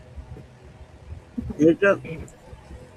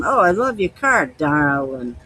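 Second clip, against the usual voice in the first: sweet Down East local flattering someone; lightly imitated Mainer; Maine accent quote. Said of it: "they'll say something".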